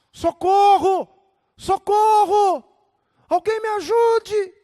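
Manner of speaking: loud, high, drawn-out yell; acted panicked holler; desperate cry for help. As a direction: shout for rescue as if hanging from a cliff. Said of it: "desesperadamente a clamar".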